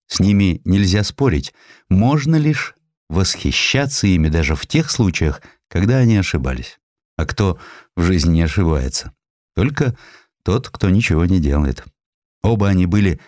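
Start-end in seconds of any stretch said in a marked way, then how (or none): none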